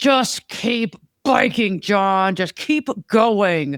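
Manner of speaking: put-on annoyed, dismissive tone. Speaker recalls what they told John during his training race, retelling a mad brush-off. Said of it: "And I was so mad".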